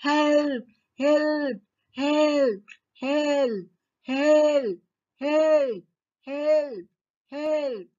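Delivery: high, loud cries of help; shouting for help. Acted. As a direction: call out in panic from the cave. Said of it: "ते ओरडायला लागले". (घाबरून मदतीसाठी ओरडणे)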